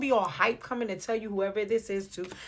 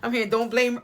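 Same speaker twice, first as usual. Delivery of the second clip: a lightly voiced planet protesting, a bit louder; light mock protest from the planet; voicing the planet; 5 dB louder than usual. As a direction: play Mercury pleading innocence. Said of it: "look at the planet in the corner".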